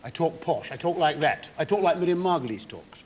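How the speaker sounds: lightly put-on posh English accent; a hint of a posh accent over a northern one; posh telephone voice. Shown as a demonstration. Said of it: "what I call my telephone voice".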